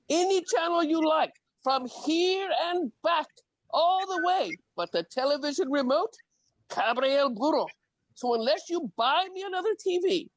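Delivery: half-sung playful back-and-forth of a courting couple; voiced proposal poem. Poet voicing a proposing couple, light playful role voices.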